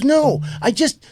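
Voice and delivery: high, drawn-out mock protest; imitated tearful plea. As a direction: mimic a woman starting to cry. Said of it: "she starts crying".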